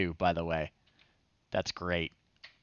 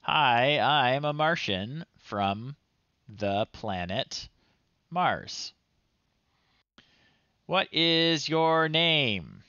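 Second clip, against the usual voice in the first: mock Martian voice; 4 semitones higher, slower than usual. Reading the Martian's lines.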